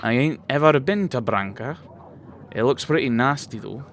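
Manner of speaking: lightly put-on rustic country accent; a touch of rural English accent; mild rustic English accent. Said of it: "with no more of that accent".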